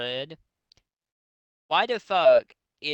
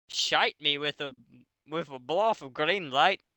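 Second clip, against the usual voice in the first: a light mock Scottish lilt on "shite"; a hint of a Scottish accent, hammed up. Shown as a demonstration. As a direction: read it in a faint Scottish accent. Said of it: "in a fucking Scottish accent".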